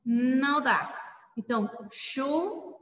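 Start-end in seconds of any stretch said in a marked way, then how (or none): 1.9-2.8 "chuva" broken into syllables, starting with a SH sound; som de X. Shown as a demonstration. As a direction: say "chuva" as SHU, pause, VA. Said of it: "ele tem o som de X". ("chuva" em sílabas, com som de X)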